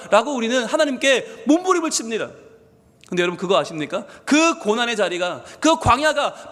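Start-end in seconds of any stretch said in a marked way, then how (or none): none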